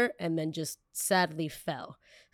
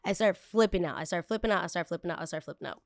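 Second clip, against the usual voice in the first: fading repetition. Acted. Repeated phrase fading out.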